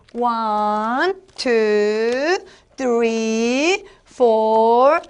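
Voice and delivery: put-on slow, stretched counting for children; drawn-out playful storybook voice; storytelling demo. Shown as a demonstration. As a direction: count the monkeys out with rising lilt. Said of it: "자, 예를 들어서".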